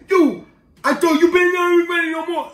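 high, mock scolding shout; imitated patrol kid. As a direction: bawl out the rule like an overexcited hall monitor. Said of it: "He's like".

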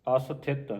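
ਅਸਥਿਤ with aspirated "th"; ਅਸਥਿਤ with thatha. Shown as a demonstration. Teacher showing the letter thatha, ਅਸਥਿਤ with aspirated th. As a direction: sound the puff of "th" in ਅਸਥਿਤ. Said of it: "ਥੱਥੇ ਦੀ ਆਵਾਜ਼ ਉਚਾਰਨ ਕਰਨੀ".

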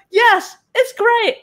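high, drawn-out cry of delight; mock elation. Artist liking the work one minute, acted elation.

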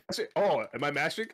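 high, loud teasing retort; taunting a player who complained about mashing; mock innocent. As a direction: play dumb, loudly. Mocking reply to complaint.

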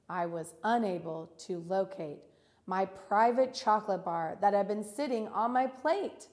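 measured, expressive classroom reading; poem read aloud. Acted. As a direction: read the verse clearly for children to follow. Reads poem aloud with students.

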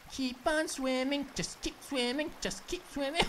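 light singsong keep swimming; Dory quote. Retold or imitated. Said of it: "Where's Dory when you need her".

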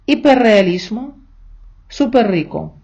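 long rolled r in «іперреалішмо» and «суперрико»; double r kept. Shown as a demonstration. Teacher gives examples of compound words, strong double r. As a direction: roll both r's together in «іперреалішмо», «суперрико». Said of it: "зберігається і в графічному, і в фонетичному виконанні".

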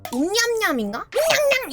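high, teasing nom-nom; imitated munching noise. Imitating the sound that angers Maltese dogs, playful high munching. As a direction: tease with rising munchy nonsense. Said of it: "그 소리에 화내던데?".

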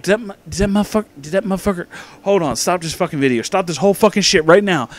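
fast, high, outraged; outraged disbelief. Retold or imitated. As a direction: act out your own shock. Reenacting his own outraged reaction.

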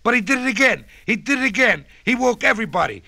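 the pig grumbling; oinking pig. A narrator's reading. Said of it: "oinked the pig in the pen".

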